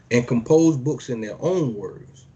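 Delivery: slow, solemn reading of holy text; measured preacher's reading; scripture reading. Acted. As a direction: declaim each line like a decree. Reads scripture aloud.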